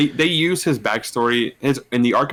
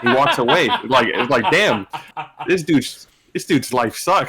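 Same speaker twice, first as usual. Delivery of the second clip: laughing; 3 semitones higher than usual. Real, not acted. Laughing retelling of the scene.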